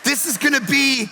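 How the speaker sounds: preaching at full force. Acted. Pastor to congregation, rousing vacation freedom preaching. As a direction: preach it like a revival crescendo. Sermon, building vacation joy.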